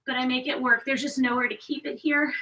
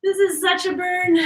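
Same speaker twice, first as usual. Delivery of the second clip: strained; 6 semitones higher, 3 dB louder than usual. Real, not acted. Mid-exercise strain.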